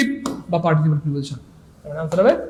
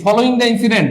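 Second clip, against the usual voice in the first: slow dictation; 4 semitones higher, 3 dB louder, much slower than usual. Shown as a demonstration. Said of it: "teacher reads phrase slowly".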